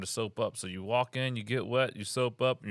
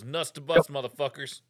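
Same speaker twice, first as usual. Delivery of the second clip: barked order, louder; mock drill instructor yell; 4 semitones higher, 7 dB louder than usual. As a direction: bark it like a drill sergeant. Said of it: "And he goes".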